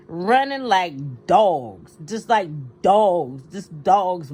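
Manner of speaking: slow, disgusted, building anger; angry emphasis. Real, not acted. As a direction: hammer each word with contempt. Angry rant about troop withdrawal.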